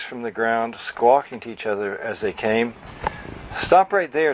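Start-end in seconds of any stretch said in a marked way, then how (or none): 3.5-4.3 called out, a touch raised; calling out. Acted. Twee calls out to the unsavory birds, raised voice. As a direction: call to the birds to halt. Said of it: "Twee called to the unsavory birds".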